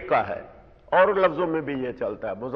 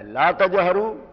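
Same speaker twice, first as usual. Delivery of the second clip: slow citation; 3 semitones higher, slower than usual. Shown as a demonstration. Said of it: "بلند آواز سے نہ بولو".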